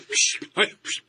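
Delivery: hushing. Acted. Father hushes the son.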